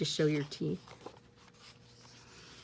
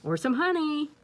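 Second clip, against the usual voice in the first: bear; 8 semitones higher than usual. Acted. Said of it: "there's the bear".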